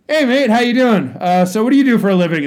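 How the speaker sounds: high, loud Aussie mock greeting; Australian accent. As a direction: play the cheeky Aussie comic. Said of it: "he's like".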